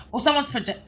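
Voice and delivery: words broken by hiccups; hiccuping. Real, not acted. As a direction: cut off by a hiccup. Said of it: "oh God, I'm hiccuping".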